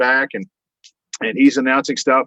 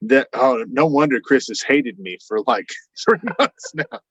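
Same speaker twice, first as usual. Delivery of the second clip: laughing realization. Retold or imitated. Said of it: "And I was like".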